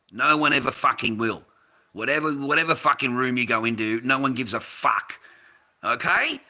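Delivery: angry put-down. Real, not acted. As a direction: shout the chatter down, rising to a sharp challenge.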